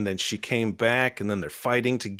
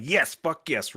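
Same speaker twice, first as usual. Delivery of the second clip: raised-pitch fan cheer; retold cheering; 5 semitones higher than usual. Fan cheering Gambit on mid-fight, retold excitement. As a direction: cheer the hero on, reenacted.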